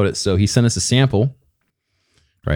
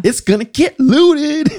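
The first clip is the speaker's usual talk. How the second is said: excited squeal; 5 dB louder, slower than usual. Acted. Joking squeal about weed.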